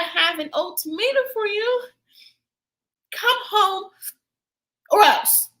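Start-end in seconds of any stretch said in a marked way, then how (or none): 3.1-5.5 mock threat. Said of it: "That works in movies".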